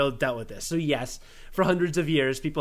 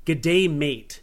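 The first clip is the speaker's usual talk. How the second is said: Australian greeting; 4 dB louder than usual. Shown as a demonstration. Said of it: "I'm supposed to say".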